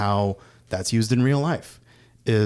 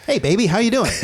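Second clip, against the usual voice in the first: high-pitched mock white voice; 11 semitones higher, 3 dB louder, faster than usual. Cassius waking up next to Tessa Thompson, white voice. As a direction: put on an exaggerated white voice, pitched up. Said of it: "talking in his white voice".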